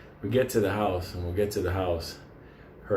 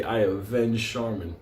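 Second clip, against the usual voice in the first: mock vow. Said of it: "and say".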